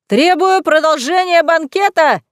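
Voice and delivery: high, loud tipsy demand; drunken shout. A narrator's reading. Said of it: "закричала Хлойсиха и пьяно расхохоталась".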